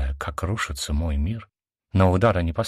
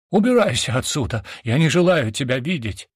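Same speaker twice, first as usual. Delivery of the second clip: angry order; 6 semitones higher, 3 dB louder than usual. A narrator's reading. Brother throws sister out.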